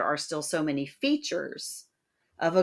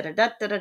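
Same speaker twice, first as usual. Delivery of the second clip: quick "da" beats, higher, with a stressed one closing each group; anapest beat; 4 semitones higher, much faster than usual. Shown as a demonstration. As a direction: tap out "da, da, da" leaning on the third. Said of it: "those are two anapests".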